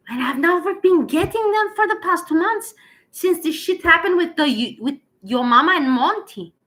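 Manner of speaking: high, loud indignant whine; indignant complaint. Retold or imitated. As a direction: complain like an entitled customer. Acts out Monty complaining to YouTube.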